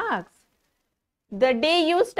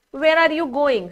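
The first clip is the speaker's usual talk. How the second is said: "Where are you going?" asked as a real question; question intonation; 5 semitones higher, 4 dB louder than usual. Shown as a demonstration. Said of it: "So if I am speaking like that".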